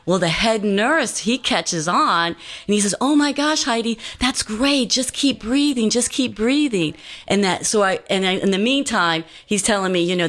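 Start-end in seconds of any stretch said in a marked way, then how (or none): 3.0-6.9 pitched up high, bright cheering on; excited encouragement. Retold or imitated. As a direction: urge her on with delight. Head nurse cheers her breathing on.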